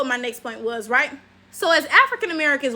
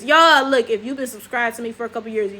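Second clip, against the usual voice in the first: ordinary talk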